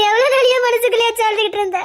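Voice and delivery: tearful question. Acted. Mother weeps for her son.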